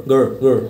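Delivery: "গর" as a weak "guh"; barely sounded schwa. Shown as a demonstration. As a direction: swallow the vowel in "গর". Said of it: "মানে উচ্চারণটা হবে না".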